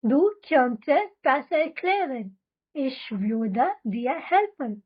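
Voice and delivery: very slow, every syllable laid out for repeating; slow drill reading. Shown as a demonstration. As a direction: read it slowly so learners can echo you. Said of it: "चलो अब हम साथ में बोलते हैं इसको". (बहुत धीमे, साफ़ साफ़ दोहराने के लिए)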